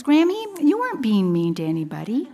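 a hint of a child reassuring her grandma; five-year-old granddaughter. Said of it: "she's five, she looks at me, she goes".

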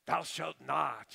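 slow, loud mock decree; mock stern commandment. Preacher voices a killjoy god, slow and stern. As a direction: boom it out like a stern lawgiver. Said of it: "the cosmic killjoy".

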